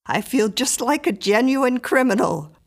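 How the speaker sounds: gaily. Acted. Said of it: "said Missus Miller gaily".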